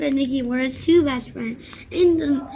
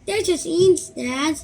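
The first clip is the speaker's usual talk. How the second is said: louder, higher amused son; amused reassurance; 5 semitones higher, 5 dB louder than usual. Acted. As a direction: laugh it off for dad. Son dismissing dad's fear.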